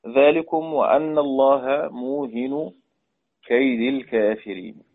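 slow, measured recitation of the verse; teacher intoning the verse slowly; Quran recitation. Shown as a demonstration.

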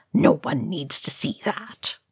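faint wobbly voice; weak, trembling plea. Acted. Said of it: "in a faint and wobbly voice".

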